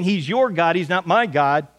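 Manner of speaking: "your" hit hard, "my" set against it; stress on your. Retold or imitated. Widow telling Elijah it's his God, stress on "your". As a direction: lean on "your" to push God back to him. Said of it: "emphasized the word your".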